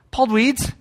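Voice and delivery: put-on lightly high kid sister; a hint of a chirpy sister. The speaker voicing his sister's happy answer, lightly high. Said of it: "and she's like".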